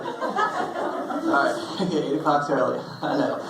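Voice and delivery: laughing through the words; giggling at his own story. Real, not acted. Telling the crowd through laughter.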